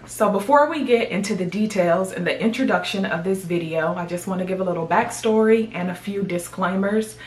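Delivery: gum in mouth; talking while chewing gum. Real, not acted. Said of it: "I have to have gum in my mouth these days".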